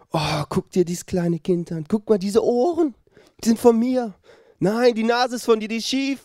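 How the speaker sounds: put-on high, doting parent voice over a baby; cooing new parents. (hoch und entzückt wie stolze Eltern)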